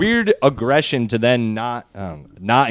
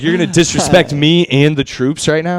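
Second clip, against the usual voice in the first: higher-pitched, hammed-up outrage; mock patriotic indignation; 5 semitones higher, 4 dB louder than usual. Moviegoer to the guy kicking his chair, mock patriotic indignation. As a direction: play the offended patriot, raised pitch. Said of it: "I was feeling super patriotic".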